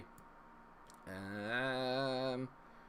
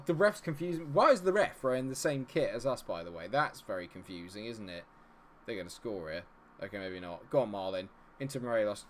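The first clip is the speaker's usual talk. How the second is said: ordinary talk, nothing marked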